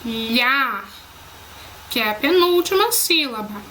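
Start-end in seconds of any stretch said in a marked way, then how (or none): 0.0-0.8 "lhá" alone, held and lower; single out "lhá" as the strong syllable; teacher isolating "lhá"; isolated stressed syllable. Shown as a demonstration. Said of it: "A sílaba mais forte é o".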